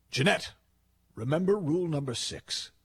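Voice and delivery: unhurried, gently amused Prime Minister; calm reminder. Retold or imitated. Prime Minister calmly reminding his flustered aide, unruffled and light. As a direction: remind her lightly, no fuss.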